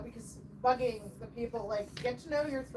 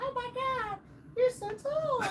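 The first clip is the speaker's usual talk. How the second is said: put-on very high-pitched little-old-lady voice; 12 semitones higher than usual. Retelling what little old ladies at the thrift store say: imitating little old ladies. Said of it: "all these little old ladies are like".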